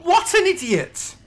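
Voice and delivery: loud, high-pitched wail of dismay; sad and annoyed. Real, not acted. Gamer who just killed his zombie villager, sad and annoyed. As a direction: cry out in anguish at your own blunder. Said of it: "I'm really sad and annoyed".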